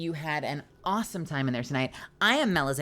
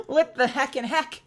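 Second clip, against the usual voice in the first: higher, slow, disbelieving laugh; laughing surprise; 10 semitones higher, 7 dB louder than usual. Real, not acted. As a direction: laugh at the sudden raid.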